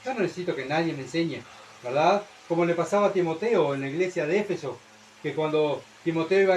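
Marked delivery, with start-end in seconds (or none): 0.0-1.4 lightly voiced smug fool; a hint of the proud fool brushing off advice; understated mock boast of the fool; mock know-it-all fool. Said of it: "El necio dice".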